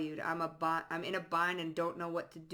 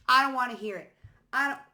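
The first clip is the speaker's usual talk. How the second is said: higher, louder objection; mock protest; 6 semitones higher, 9 dB louder, faster than usual. Reader voicing people who refuse to listen, loud mock protest.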